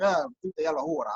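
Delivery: mock Swedish gibberish, played for laughs; fake Swedish. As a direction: pretend to be a panicked foreigner in fake Swedish. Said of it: "making random sounds that sounded like Swedish".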